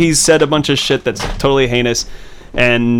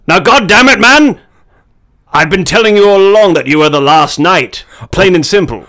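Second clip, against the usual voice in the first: higher, louder hammed-up rage; over-the-top shouting mentor; mock furious outburst; 8 semitones higher, 7 dB louder than usual. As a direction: blow up at the thick-headed hero. Acted Hopkins exploding at Mark.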